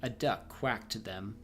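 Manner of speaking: steady storybook reading voice; story narration. A narrator's reading. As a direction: read the tale aloud to the viewers. Streamer reads second tale aloud.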